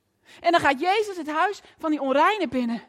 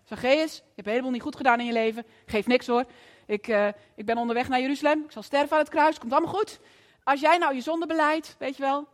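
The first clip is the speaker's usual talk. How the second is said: lower, lecturing preacher voice; mock conversion sermon; 5 semitones lower than usual. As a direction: lightly parody a preachy Jesus, pitched lower. (spottende preektoon, lager)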